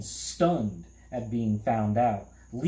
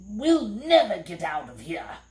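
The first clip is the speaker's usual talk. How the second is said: a higher, moaning lament; mild despairing moan; 8 semitones higher, 5 dB louder than usual. A narrator's reading. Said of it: "the humbug moaned".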